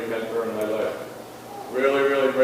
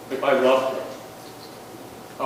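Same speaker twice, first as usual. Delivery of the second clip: hushed; 4 dB quieter, much slower than usual. Retold or imitated. Daughter's painful question retold.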